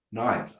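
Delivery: "Neither" with an eye vowel, NYE-thuh; NYE-ther pronunciation. Shown as a demonstration. Coach repeating the model for the student, "Neither" as NYE-thuh. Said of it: "I would say neither".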